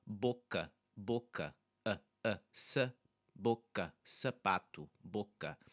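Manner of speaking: boca and sapato with reduced "uh" A; unstressed A. Shown as a demonstration. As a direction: isolate short "uh", keep it small ending boca. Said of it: "unstressed A".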